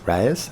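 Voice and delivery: Reyes said "RAY-ez", rising like a question. Shown as a demonstration. Host dithering over a viewer's surname, questioning. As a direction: ask "Reyes" with an "ay" sound. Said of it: "I'm doing it again".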